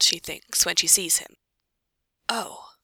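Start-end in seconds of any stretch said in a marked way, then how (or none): 2.3-2.7 soft, breathed exclamation. A narrator's reading. Hermione on seeing the knight, breathed. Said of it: "breathes Hermione".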